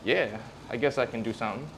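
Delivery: a hint of grudging consent; reluctant low back. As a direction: agree half-heartedly, lightly acted. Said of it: "And the back goes".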